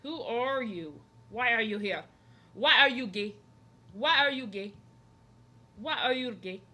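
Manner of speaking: loud, punchy mock accusing yell; meme interrogation. Streamer acting out panic at strangers, mock accusing yells. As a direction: hammer each question like a comic interrogator. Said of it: "I'd be like".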